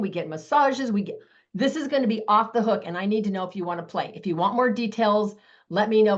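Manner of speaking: bubbly, eager video-message pitch; excited. Shown as a demonstration. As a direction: gush about the trip to win her over. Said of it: "I literally sound this excited".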